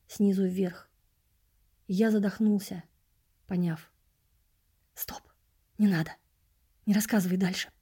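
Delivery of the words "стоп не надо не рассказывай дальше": whispered. Acted. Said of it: "прошептал я".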